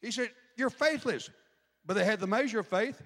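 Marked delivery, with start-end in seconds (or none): 0.5-1.3 higher, dry sarcastic jab; sarcastic rebuke. Retold or imitated. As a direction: toss it off with sarcasm. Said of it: "He's being very sarcastic".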